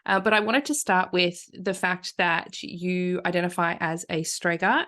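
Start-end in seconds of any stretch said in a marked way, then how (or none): 4.2-4.9 slow, broad Aussie bogan accent saying Strega. Real, not acted. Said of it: "pronounced that wrong with my super Aussie bogan".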